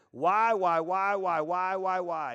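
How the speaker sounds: loud high pleading whys; mock desperate whys; repeated whining why. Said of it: "starts questioning God".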